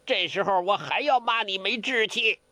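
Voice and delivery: 要 in 这时候我还要骂你没志气 hit hard; scolding. Acted. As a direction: scold him for his lack of spirit. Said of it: "梅超风骂他".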